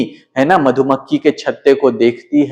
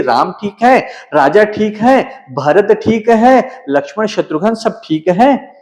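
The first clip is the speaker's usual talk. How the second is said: frightened; 4 semitones higher than usual. Acted. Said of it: "भय से रानी ने कहा".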